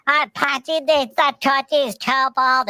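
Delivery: high eager dog voice; a hammed-up puppy begging; Pudgy. Pudgy begging for Thin Mints, high and eager. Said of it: "And Pudgy's like".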